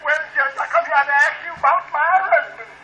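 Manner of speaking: acted tearful complaint to a judge; weepy comic-sketch wife. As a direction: plead your case as if crying. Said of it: "You needn't cry about it".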